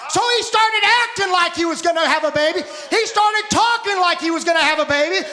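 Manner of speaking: rising revival preaching; preaching at full force. Acted. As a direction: press it home to the congregation.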